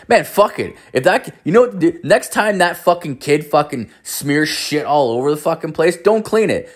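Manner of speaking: high-pitched, worked-up advice; urging the stay-at-home dad to rebel, pitched high; fired-up rant. Retold or imitated. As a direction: egg your buddy on, voice jumping up high.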